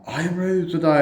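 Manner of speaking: high, loud put-on declaration. The speaker declaring himself while driving, hammed-up high voice. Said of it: "Alexi, if you slept, he's like".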